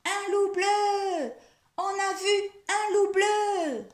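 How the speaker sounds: high, loud, drawn-out mock alarm; crying out loudly. Mouse and bird pranking the squirrel together, loud cry. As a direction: call it out high, stretching each word.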